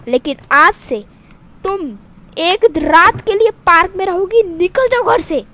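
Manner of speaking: scolding punishment; mother banishes the girl in anger; angry mother. Acted. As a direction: throw her out. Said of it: "mummy गुस्से में आके".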